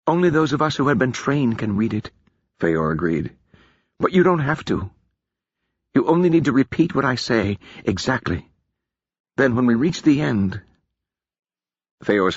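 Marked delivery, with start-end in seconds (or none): 0.1-2.1 put-on solemn warning to a young woman; lightly voiced wise mage; Feor's voice. Feor voiced. 4.0-10.6 put-on solemn warning to a young woman; lightly voiced wise mage; Feor's voice. Feor voiced.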